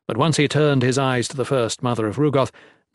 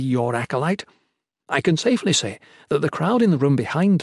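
educated acolyte, mildly sardonic; a hint of prim young cleric; lightly voiced Erin; 3 semitones higher than usual. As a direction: talk back politely in a lifted character voice. Voices Erin in narrated story.

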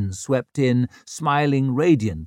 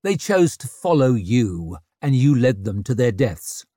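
angry; 5 dB louder than usual. Acted. Accusing a friend of deaths.

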